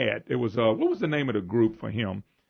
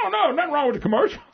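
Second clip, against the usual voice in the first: mocking quote; 12 semitones higher, 4 dB louder, faster than usual. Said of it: "and they said".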